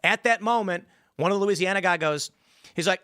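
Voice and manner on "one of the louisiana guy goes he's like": ordinary talk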